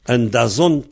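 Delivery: "Dazont" with the accent on its last syllable, ZONT; final stress on Dazont. Shown as a demonstration. Teacher showing a Breton word, "Dazont" stressed on the final syllable. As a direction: lean on the end of "Dazont". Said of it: "l'accent est sur la finale".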